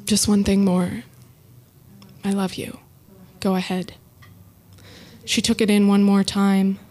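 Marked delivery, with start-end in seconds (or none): 0.0-3.9 teary. Real, not acted. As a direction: hold back tears as you say it. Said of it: "a little teary-eyed now".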